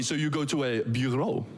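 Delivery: bureau given a French lilt; French accent. Shown as a demonstration. Comedian joking to internationals, in a French accent. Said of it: "in a French accent".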